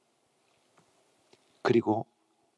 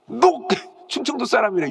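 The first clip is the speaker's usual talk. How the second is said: mock accusation; 5 semitones higher than usual. 충청도 비유 속 고발.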